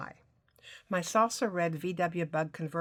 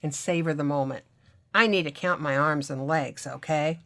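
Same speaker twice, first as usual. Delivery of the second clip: intoxicating voice; 4 dB louder than usual. Acted. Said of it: "he continued in that intoxicating voice".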